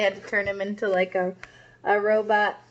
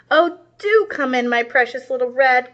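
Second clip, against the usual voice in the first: truck putting on a sweet granny voice, a bit higher; fake granny voice; 3 semitones higher, 4 dB louder than usual. Tink disguised as Granny, luring Little Red in, mock sweet granny voice. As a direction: play the villain faking a sweet old granny. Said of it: "cackled Tink in his best Granny voice".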